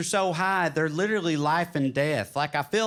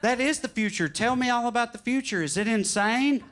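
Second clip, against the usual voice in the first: put-on higher-pitched eager kid; excited, pitched-up questions; amazed younger self; 6 semitones higher than usual. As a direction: bombard the time traveler with wonder. Amazed twelve-year-old self replies.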